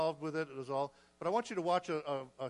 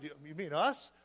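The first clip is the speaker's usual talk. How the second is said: taken-aback question, rising at the end; retold shocked reaction; mild shock. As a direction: ask it in stunned disbelief, lightly re-enacted. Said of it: "kind of in shock".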